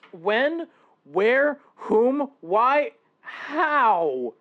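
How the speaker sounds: high, loud rapid-fire questions; flustered barrage. Acted. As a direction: fire off each question in a panic.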